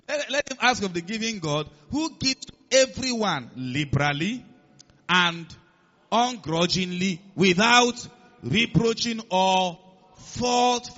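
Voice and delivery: slow reading, stretching the final words; emphatic scripture reading. Acted. Preacher reading the verse on asking God, emphatic scripture reading. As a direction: build to a loud, drawn-out finish.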